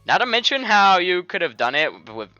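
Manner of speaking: loud, lilting fake Indian accent; badly faked Indian accent. Friend excusing the jokes, in a hammed-up Indian accent. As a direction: tease in a broad put-on Indian accent. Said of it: "fucking Indian man's voice instead".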